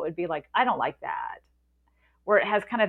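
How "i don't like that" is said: creaky vocal fry. Shown as a demonstration. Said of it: "So I'll give an example".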